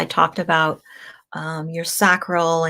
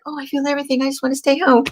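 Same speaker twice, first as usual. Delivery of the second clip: mopey Pisces; 8 semitones higher, much faster than usual. Pretend. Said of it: "the Pisces is like".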